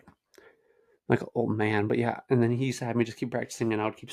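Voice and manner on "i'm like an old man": put-on slow whispered old man voice; weary old man muttering slowly. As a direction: creak it out like a tired old man.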